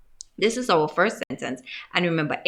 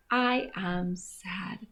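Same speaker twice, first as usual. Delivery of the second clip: slow, softer whispered sadness; sad whisper; 5 dB quieter, much slower than usual. Shown as a demonstration. Teacher shows children sad, in a slow whisper.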